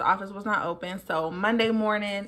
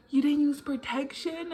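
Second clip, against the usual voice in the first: disappointed; 6 semitones higher, 4 dB quieter than usual. Retold or imitated. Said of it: "she just kinda sounded disappointed".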